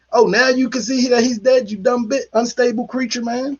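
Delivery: mock her for showing up late; sarcastic mock. Mocking the nurse's too-late check.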